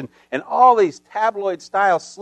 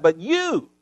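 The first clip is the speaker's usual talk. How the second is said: stinging accusation; 2 semitones higher than usual. Retold or imitated. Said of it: "with these stinging accusations".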